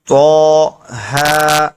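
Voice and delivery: Quranic letters drawn out very slowly; tajweed recitation with long madd. Shown as a demonstration. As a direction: chant each letter long and measured. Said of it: "एक अलिफ पर और खींचेंगे".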